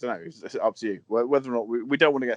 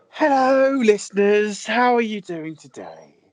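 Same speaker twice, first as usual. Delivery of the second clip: very high, slow, patronising talking-down sing-song; 10 semitones higher, 5 dB louder than usual. Doing a mock radio intro for listeners, in a slow patronising voice. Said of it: "trying to talk slow and patronising to them".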